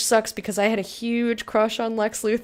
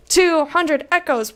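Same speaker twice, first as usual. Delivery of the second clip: slow, loud and higher, savouring the number; excited cheer; 6 semitones higher, 7 dB louder, slower than usual. Real, not acted. Streamer celebrating a big in-game payout, excited. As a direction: crow over the money.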